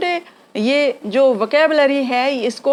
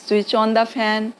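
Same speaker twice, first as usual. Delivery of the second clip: very slow, gentle request to mom; slow polite request; 3 semitones lower, much slower than usual. Shown as a demonstration. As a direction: ask mom slowly and politely. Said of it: "बड़ों को बोल रहे हैं".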